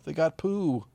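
high mock dismay. Mock distress at the movie.

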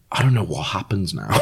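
whispered, on the verge of tears; tearful whisper. Retold or imitated. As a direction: breathe it out like you're about to cry. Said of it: "I was like".

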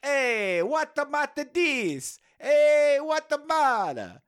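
put-on high, drawn-out cod-accented pontiff; mock Pope. Pope objecting to the bikini, high hammed-up indignation. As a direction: wail it slowly in a silly foreign accent. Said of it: "condemned by the Pope".

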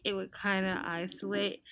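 muffled by a pillow; talking face down in a pillow. Real, not acted. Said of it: "I'm literally face down in my pillow right now".

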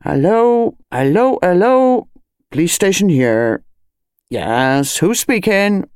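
brisk, impatient village constable on the phone, high hellos; the bored duty officer answering a call in a hurry; impatiently official. Acted. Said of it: "less impatiently official".

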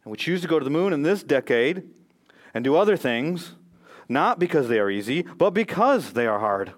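measured presidential oration; projected political speech, slowing to the close; JFK. Acted. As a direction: declaim it in firm, weighty phrases. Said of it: "He said".

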